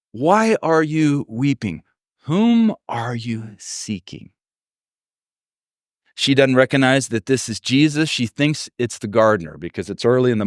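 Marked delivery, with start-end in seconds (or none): 0.1-4.3 slow, deliberate tender question; unhurried, caring question; gentle questioning. Acted. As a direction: ask it slowly, giving each word room. Gentle question after the acted outburst.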